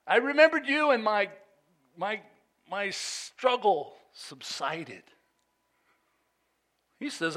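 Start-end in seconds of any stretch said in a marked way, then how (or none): 0.1-5.0 high, loud opening settling down; psalm-style declamation. Acted. Reimagines the psalm verse.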